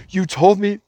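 high-pitched mock whine; whiny wimp. Retelling the car thief's excuse, mocking whiny wimp. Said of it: "he was a little bitch".

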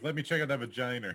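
"vagina" said as "vaginer"; mock accent, ER on the end of "vagina"; added final R. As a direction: say "vagina" ending in a hard R. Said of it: "A's at the end are like E Rs".

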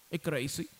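ordinary talk

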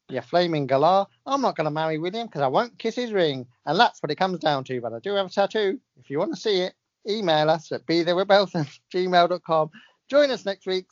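imperfect, lightly put-on Australian accent; a singer. The singer plugging the show's email, half-hearted Australian. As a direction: give the sign-off in a slipping Aussie voice. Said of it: "says a singer, whose voice I haven't quite perfected".

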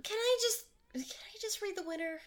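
tired whispered plea; exasperated whisper. Real, not acted. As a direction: beg quietly, worn out. Fed-up host begs to continue.

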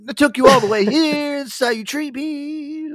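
high, loud, slow dragged-out outrage; mock furious. Cousin chewing Aaron out for his ungratefulness, high, loud and slow. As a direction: stretch out the indignant fury. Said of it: "He was so mad".

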